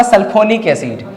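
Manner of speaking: एथिल सल्फोनिक एसिड said slowly, word by word; teacher dictating the name slowly; slow dictation. Shown as a demonstration. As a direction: spell it out slowly for students. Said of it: "तो इसका नाम क्या होता?".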